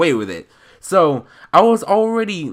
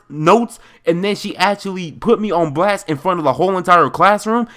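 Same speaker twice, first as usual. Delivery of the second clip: animated storytime rant. Real, not acted. Building anger retelling the incident.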